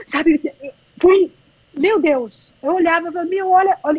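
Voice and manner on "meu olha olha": high, awestruck urging to look; amazed exclamation. Retold or imitated. Runner marvelling at the race around her, high amazed exclaim. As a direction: marvel at the sight, voice lifted high.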